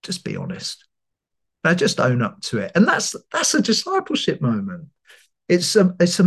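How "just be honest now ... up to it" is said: gentle inner voice. Retold or imitated. The Holy Spirit nudging the speaker to confess, gentle and low. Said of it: "just very gently saying".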